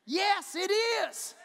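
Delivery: echoed answer from the pulpit. Shown as a demonstration. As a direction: call it back like an echo. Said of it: "Hear my echo?".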